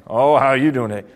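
"Oh" leaned on, then falling "how you doing today"; greeting led by "Oh". Shown as a demonstration. Coach demonstrates tone of voice, leaning on "Oh". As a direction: lead with a weighty "Oh", then let it fall. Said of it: "I just said the same phrase five different ways".

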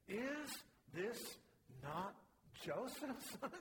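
mildly astonished, high-pitched retold question; incredulous question. Preacher voicing listeners amazed at the carpenter's son, mock incredulous. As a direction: quote them in disbelief, pausing between words, pitch lifting. Crowd astonished at Jesus' speech.

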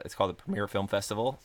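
a crack slips into the voice mid-phrase. Real, not acted. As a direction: voice cracks on Premiere. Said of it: "my voice just cracked".

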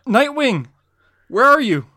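high loud frantic call. Acted. Robin shouting for Nightwing after he falls, calling out. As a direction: yell for your partner. Robin calls for lost partner.

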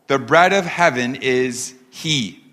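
slow line ending on a set-apart "he"; pause, then stretch the final "he"; stress on he. Shown as a demonstration. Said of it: "you can underline that word".

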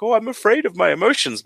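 high, quick mock-worried voice; imitating anxious friends. Voicing anxious friends' complaint.

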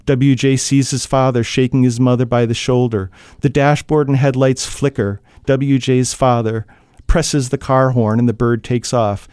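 steady, measured reading of a tense scene; even storyteller voice over a car crash; story narration. A narrator's reading. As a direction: read it like an audiobook narrator drawing listeners in. Narration continues.

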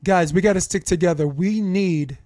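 rally the team like a coach in a timeout. Retold or imitated. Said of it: "Actually, I'll do this".

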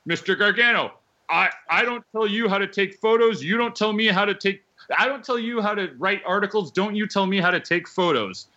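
mock indignant back-and-forth, voiced up; retold argument. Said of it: "And I'm like".

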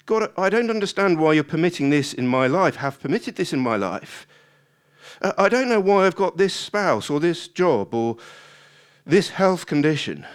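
grumbling complaint. Acted. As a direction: complain to God about your lot. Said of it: "But the grumbling continues".

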